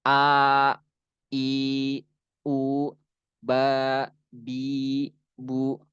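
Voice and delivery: "a, i, u, ba, bi, bu", each vowel held long; mad asli. Shown as a demonstration. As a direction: stretch every syllable, a short gap between. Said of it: "itu mad asli". ("a, i, u, ba, bi, bu" dibaca panjang)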